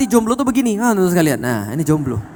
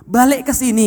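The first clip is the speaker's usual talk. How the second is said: urgent summons; 6 semitones higher, 4 dB louder than usual. Retold or imitated. Voices God's call to return.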